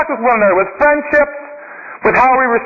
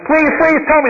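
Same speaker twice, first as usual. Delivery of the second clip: put-on higher, pleading young man; eager young seeker; 6 semitones higher than usual. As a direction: beg the monk for the answer. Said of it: "The man comes in and says".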